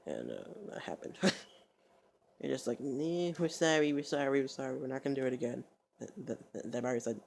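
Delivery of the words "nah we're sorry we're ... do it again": raised-pitch imitation of hurried apologies; mock apologizing. Imitating the guys saying sorry to her, mock apologizing. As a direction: plead in a put-on higher voice.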